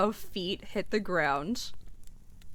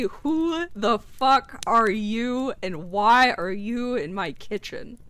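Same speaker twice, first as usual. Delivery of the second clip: 1 angry halfling; 4 dB louder, slower than usual. Acted. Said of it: "he will say".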